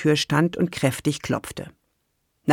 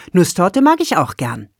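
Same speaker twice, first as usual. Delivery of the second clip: a bit louder and higher, covering the moment; raised voice; 4 semitones higher, 5 dB louder than usual. Acted. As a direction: lift your voice cheerfully. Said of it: "Sandra hatte die Stimme gehoben".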